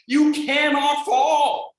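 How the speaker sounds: YOU cannot fall, slow and loud; slow emphatic declaration. Acted. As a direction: hammer home the word you. Emphatic repeat of safety claim.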